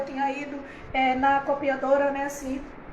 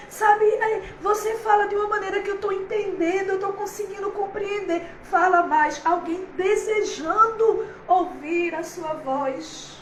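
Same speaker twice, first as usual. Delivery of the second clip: overjoyed preaching; 3 semitones higher than usual. Real, not acted. Preacher carried away by joy.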